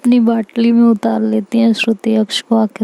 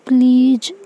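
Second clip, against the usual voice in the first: "प्लीज" pitched higher with a rising, begging lilt; second please sweeter and higher, lifting at the end; cute pleading; 4 semitones higher, slower than usual. Acted. Sick girl begging her carer, higher rising please. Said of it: "ऐसे cute सा face बनाती है".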